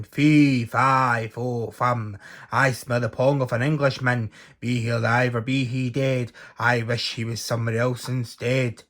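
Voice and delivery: loud booming giant chant; roaring giant. Acted. Giant roaring to sniff out Jack, booming chant. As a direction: boom out the rhyme like a huge giant. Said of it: "roared the giant".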